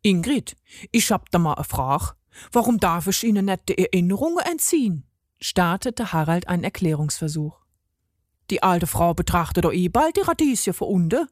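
lightly voiced dialect-speaking god; a hint of a chatty regional character; Harald, pleading in dialect. Harald explains himself to Ingrid, lightly dialect-voiced pleading.

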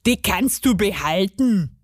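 put-on dialect dwarf voice; offhand gnome grumble; dismissive garden gnome. A narrator's reading. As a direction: wave it away as a gruff gnome.

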